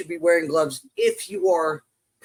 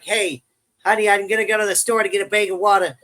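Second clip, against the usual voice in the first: hammed-up Minnesota accent, quick; mock Minnesota accent; 2 semitones higher, 4 dB louder than usual. Husband home to his wife, joking Minnesota accent. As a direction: put on a folksy Minnesota accent. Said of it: "don't get a Minnesota accent".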